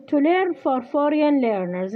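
each English word read slowly for dictation. Shown as a demonstration. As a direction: read it out word by word so the student can write. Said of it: "يقول". (قراءة بطيئة للإملاء)

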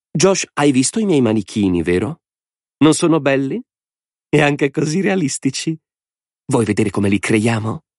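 high, gleeful madman's voice; a mad lord savouring the game; Lord Alvin. A narrator's reading. (voce alta di signore folle e allegro)

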